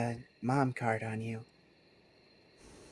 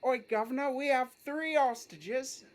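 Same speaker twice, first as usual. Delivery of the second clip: put-on cockney accent; 9 semitones higher than usual. To the police, a cockney robber repeating his line. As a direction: announce the hostages like a London crook, taking the note to drop the H. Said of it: "Man, that's good".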